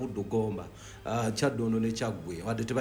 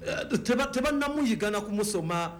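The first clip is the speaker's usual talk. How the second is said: animated, raised pitch praise; excited; 6 semitones higher than usual. Real, not acted. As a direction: gush about the player, voice up high. Raving about a player's skill.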